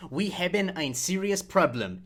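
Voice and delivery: Dutch read in a broad American accent. Shown as a demonstration. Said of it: "I'm going to read this in an American accent".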